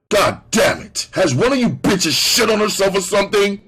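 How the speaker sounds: loud, high angry bellow. A narrator's reading. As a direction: bellow it at the women in the back. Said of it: "I bellowed".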